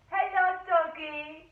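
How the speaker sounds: loud, slow cooing at a dog; cooing driver. Retold or imitated. Taxi driver cooing at her dog, loud and slow. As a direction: drag out a sing-song hello to the little dog.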